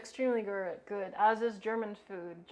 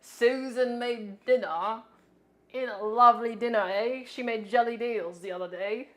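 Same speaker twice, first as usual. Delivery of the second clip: mock British accent; 5 dB louder than usual. Mocking how British people talk, in a hammed-up British accent. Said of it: "British people be like".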